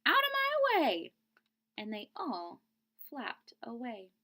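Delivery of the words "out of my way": high, loud bossy command; loud goose demand; goose pushing past. Acted. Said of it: "cried the goose".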